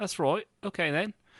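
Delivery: soft, high British-sounding elf accent. Speaker showing how accented elves are assumed to talk, British-sounding elf accent. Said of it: "so they've got to be talking like this then".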